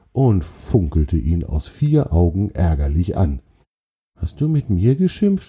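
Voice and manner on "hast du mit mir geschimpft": high, timid troll voice asking; meek. A narrator's reading. Troll asks the spider whether she scolded him, meek. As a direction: ask it small and sheepish, pitched up. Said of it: "fragte Gravier kleinlaut".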